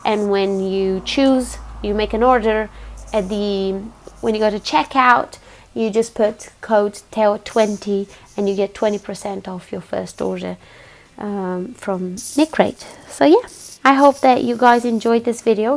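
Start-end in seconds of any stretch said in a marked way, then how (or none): 5.7-15.8 hoarse, croaky speaking voice. Real, not acted. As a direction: talk through a croaky throat. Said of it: "Sorry about my croaky voice".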